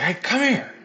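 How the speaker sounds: high, friendly call to come over; imitating the trainer. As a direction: wave him over in a chipper imitated voice. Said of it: "And he's like".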